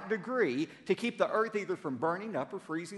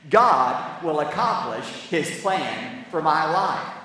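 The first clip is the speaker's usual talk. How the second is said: firm, louder, slow declaration; said like you mean it; 7 dB louder, slower than usual. Shown as a demonstration. Pastor leads congregation in bold declaration, loud and slow. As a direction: proclaim it with full conviction. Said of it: "Now say it like you mean it".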